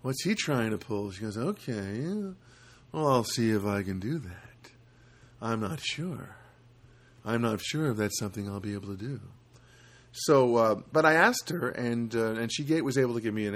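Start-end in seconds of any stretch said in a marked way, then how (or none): 0.0-1.1 softly suspicious bank clerk; mild mock paranoia; paranoid. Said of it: "you could hear the paranoia in her voice". 1.4-9.2 hesitant, mildly suspicious clerk; understated mock paranoia; paranoid. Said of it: "you could hear the paranoia in her voice".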